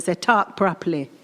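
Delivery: imitating mum's Caribbean accent; lightly voiced Caribbean mother correcting her child. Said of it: "in her Caribbean accent".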